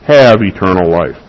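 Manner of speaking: "have" leaned on, then falling to "eternal life"; stress on have. Shown as a demonstration. Preacher to his congregation, hitting the word "have". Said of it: "and I emphasize the word".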